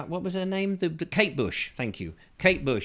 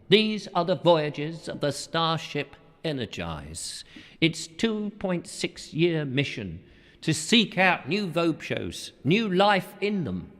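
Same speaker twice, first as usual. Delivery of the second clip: mock Star Trek narration; slower than usual. Star Trek opening monologue parody.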